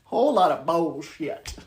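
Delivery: loud and laughing. Pretend. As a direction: belt the word out. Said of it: "You could say bullshit louder".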